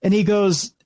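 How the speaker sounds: usual speaking voice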